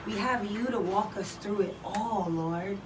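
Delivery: praying aloud during a wall sit. Acted. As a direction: pray while holding a wall sit. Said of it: "let us pray".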